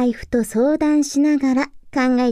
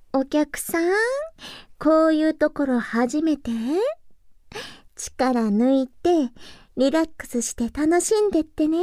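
soft hostess voice. Acted. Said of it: "自分でも思った以上に似合うだろうなって".

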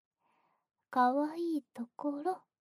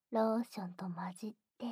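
fast, breathy ASMR whisper; rushed intimate whisper; quick whisper; 3 semitones lower, much faster than usual. Acted. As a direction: murmur it quickly into the ear.

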